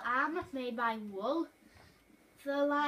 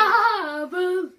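shout; 4 semitones higher, 13 dB louder than usual. Pretend. Jump-scare on friend.

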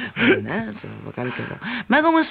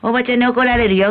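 a higher-pitched mother's scold; imitated scolding; 5 semitones higher, faster than usual. Mother warns child about the lady, mock scolding. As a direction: mimic a mother telling off her child. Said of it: "って怒るでしょ？".

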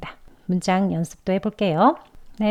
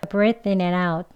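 quicker linked run, th barely touched; 2 semitones lower, much slower than usual. Shown as a demonstration. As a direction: glide through it without lingering. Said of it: "조금 빨리 해볼 건데요". (빨리 지나가듯 이어서)

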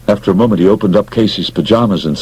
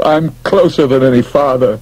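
lightly voiced McGarry; 6 semitones higher than usual. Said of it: "McGarry chortled".

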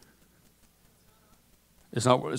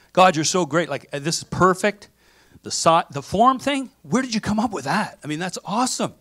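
acted excitement, pitched up; mock amazed praise; 4 semitones higher than usual. Adam praising God for Eve, excited amazement. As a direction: gush in higher-voiced amazement.

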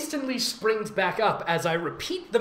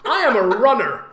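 louder by the end, reading with a laugh; mock reading; 3 semitones higher, 7 dB louder than usual. Reading the fanfic aloud to a friend, laughing as she reads. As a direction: read the line out as if it's ridiculous.

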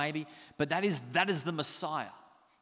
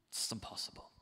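hushed; 8 semitones lower, 11 dB quieter than usual. Real, not acted. Admitting human helplessness.

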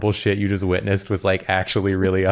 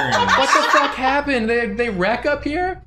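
shocked outburst; 13 semitones higher than usual. Real, not acted. Game surprise.

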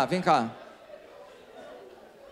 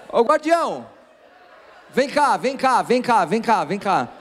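calling out; 4 semitones higher than usual. Real, not acted. Calling the guardian across room.

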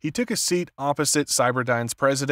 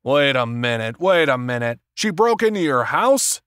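disbelief; 5 dB louder than usual. A narrator's reading. Warren reacting to the break-in at the house, incredulous. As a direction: protest in disbelief, pitch climbing at the end. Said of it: "Warren's voice cracked with disbelief".

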